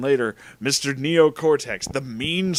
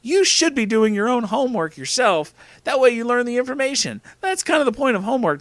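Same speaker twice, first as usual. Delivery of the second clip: put-on high, louder boyfriend voice; lecturing Crash; 10 semitones higher, 4 dB louder than usual. Boyfriend lecturing about homework, high-pitched character voice.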